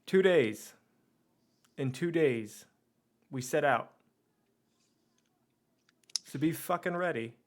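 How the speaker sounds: hammed-up, really bad Cockney; bad Cockney accent. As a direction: put on a terrible Cockney accent. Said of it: "really bad Cockney accent".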